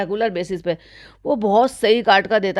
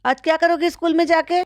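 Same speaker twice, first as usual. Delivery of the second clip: mocking madam; 6 semitones higher than usual. Vlogger imitating madam asking her son for a high five, high coo. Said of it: "कहती है".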